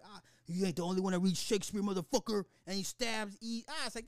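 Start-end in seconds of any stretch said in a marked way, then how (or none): 0.0-2.4 mock villain quote.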